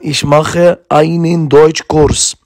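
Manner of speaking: slow, word by word, as a model; slow example sentence. Shown as a demonstration. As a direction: spell the sentence out slowly for pupils. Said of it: "زي مثلًا".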